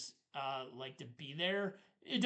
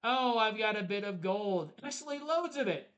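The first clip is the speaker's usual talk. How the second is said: boastful dragon; 5 semitones higher, 5 dB louder than usual. Pretend. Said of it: "He's like".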